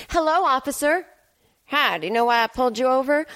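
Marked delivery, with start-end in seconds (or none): 0.1-1.1 falsely sweet greeting. Acted. Greets police officer sweetly.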